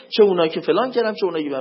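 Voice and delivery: ordinary talk, nothing marked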